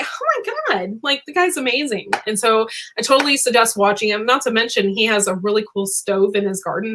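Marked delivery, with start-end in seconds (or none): 0.0-2.1 high, airy fangirl gasp; starstruck gush. Retold or imitated. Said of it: "I was like".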